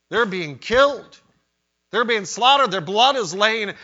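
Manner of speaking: preacher's mounting cry over the martyrs; rising lament. Real, not acted. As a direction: build the horror toward the slaughter.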